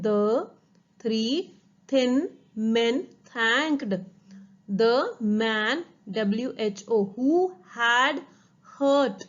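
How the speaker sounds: each word set apart with pauses. Shown as a demonstration. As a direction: read it again slowly, one word at a time. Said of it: "फिर से पढ़ते हैं".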